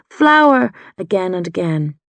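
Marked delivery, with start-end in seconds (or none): 0.1-0.7 high, loud anguished yell of a name; a boy's desperate yell, much higher and louder. A narrator's reading. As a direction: cry the name out to him.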